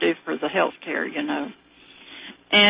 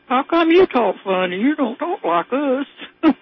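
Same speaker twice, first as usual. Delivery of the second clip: drawn-out redneck drawl, pitched up; redneck accent; 5 semitones higher, slower than usual. Retold or imitated. Schoolmate challenging her son in grammar school, redneck accent. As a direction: mimic a redneck kid, stretching the words. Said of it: "A real good redneck accent?".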